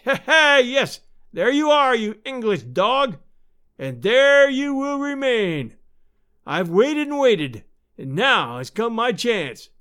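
high, loud, slow vengeful taunting; gloating villain. A narrator's reading. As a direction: shout your gloating across an abyss. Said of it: "A shriek of laughter came across".

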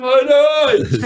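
high, drawn-out call; mock calling out. Husband ends the prank on his wife, high drawn-out call. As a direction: sing out a parting call to another room.

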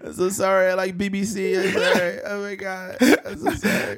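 high, laughing fake sob; whiny put-on tears breaking into laughter; mock crying apology. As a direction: parody a weepy confession while cracking up. Mocking the tearful coming-out.

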